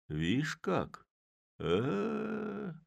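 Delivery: high, drawn-out speechless stammer; dumbfounded Chub. A narrator's reading. Chub staring at the mayor, a high bewildered stammer. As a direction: lose all words from shock.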